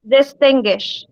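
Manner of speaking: teacher's careful repeat of "Distinguish", leaning on TIN; syllable stress. Shown as a demonstration. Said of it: "in which syllable did my voice rise".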